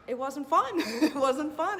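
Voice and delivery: laughing while speaking; rueful laugh through the words. Real, not acted. Laughing through bad memory.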